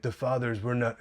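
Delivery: imitating a vague Russian accent; lightly put-on, unplaceable Russian accent; indistinguishable Russian accent. Milo telling Constantine off, indistinguishable Russian accent. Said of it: "in his just indistinguishable Russian accent".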